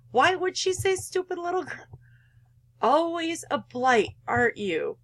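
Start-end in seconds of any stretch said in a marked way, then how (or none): 0.1-2.0 high, incredulous question; can't believe what she just heard; incredulous, higher pitched echo; shocked disbelief. Real, not acted. Player shocked by mother's words.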